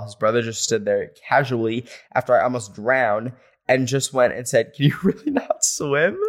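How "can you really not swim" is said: mocking quote. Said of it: "It wasn't in, like, a genuine tone".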